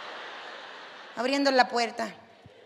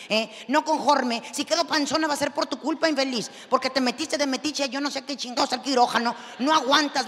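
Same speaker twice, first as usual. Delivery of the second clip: a mother just out of surgery chewing out her husband; angry scolding; 3 semitones higher than usual. Retold or imitated. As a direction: tear into him, building up to yelling. Wife scolding husband in hospital.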